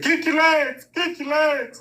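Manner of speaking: mock military dad shouting instructions; dad yelling orders. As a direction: bark it like a strict father at the pool. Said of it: "He said".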